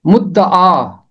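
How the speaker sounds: मुद्दआ said with a doubled द and a long final आ; pronunciation of मुद्दआ. Shown as a demonstration. Teacher to class, showing how मुद्दआ is pronounced, careful. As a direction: say मुद्दआ clearly: mud-da-aa. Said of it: "इसका तलफ़ुज़ है".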